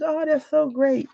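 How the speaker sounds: high, slow gushing praise. Retold or imitated. To a friend made ambassador, high slow gushing. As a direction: coo it like a proud friend.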